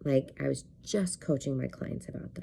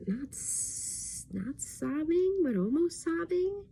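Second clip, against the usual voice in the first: near tears; 12 semitones higher, 3 dB quieter, slower than usual. Retold or imitated. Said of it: "I just start crying".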